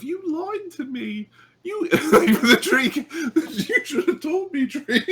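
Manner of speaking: very high, drawn-out mock accusation breaking into laughter; mock betrayed Sonny. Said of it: "Sonny has this look of".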